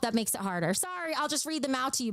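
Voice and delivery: ordinary talk, nothing marked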